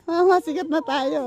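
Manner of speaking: laughing tease. Real, not acted. Joking they are famous, laughing. (natatawang panunukso)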